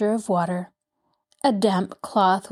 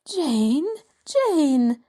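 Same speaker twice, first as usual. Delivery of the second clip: higher, gently urging name call; pleading; 6 semitones higher than usual. A narrator's reading. Mrs Potter to her distraught friend, pleading. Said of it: "Missus Potter pleaded".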